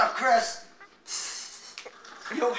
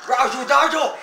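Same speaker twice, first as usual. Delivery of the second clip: dad voice; 3 semitones higher, 5 dB louder than usual. Acted. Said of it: "You sound exactly like your dad".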